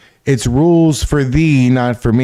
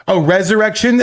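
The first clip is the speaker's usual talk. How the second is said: sudden high-pitched "oh" of discovery; surprised realization; 6 semitones higher than usual. Real, not acted. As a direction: catch the mistake with a jump in pitch. Realizing autocorrect changed word.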